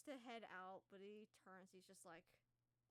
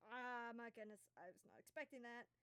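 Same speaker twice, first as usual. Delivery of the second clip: pained npc; 2 semitones higher, 3 dB louder than usual. Acted. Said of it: "he's just like".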